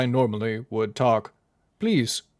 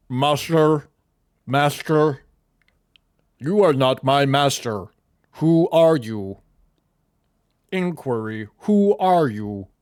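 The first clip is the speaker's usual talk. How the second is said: drawn-out, slow, deliberate and measured character voice. Voicing a butler that wakes when plugged in: Butler Tix voice. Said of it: "and he just goes".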